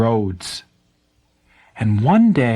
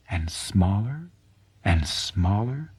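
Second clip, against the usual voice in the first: fading away; 4 semitones lower, 8 dB quieter than usual. A narrator's reading. Tasaku shrinking back to man.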